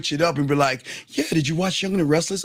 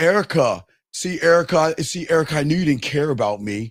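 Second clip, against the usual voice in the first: plain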